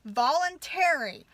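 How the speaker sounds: slow, mock-sweet imitation; cute sounding. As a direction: drag out each word sarcastically. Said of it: "Make it all cute sounding".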